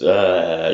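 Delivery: just make the noise, without throwing it out; unprojected growl. Shown as a demonstration. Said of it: "You're not supposed to just".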